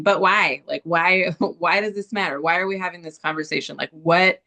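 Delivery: lightly voiced whiny nasal skeptic; a hint of an obnoxious nasal heckler. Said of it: "like, kind of obnoxious, like, nasal voice going".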